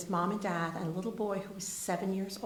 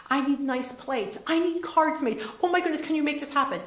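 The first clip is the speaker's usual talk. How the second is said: urgent plea, rising higher and louder line by line; frantic request; 5 semitones higher, 5 dB louder than usual. Retold or imitated. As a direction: rush through the list in a panic. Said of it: "I said".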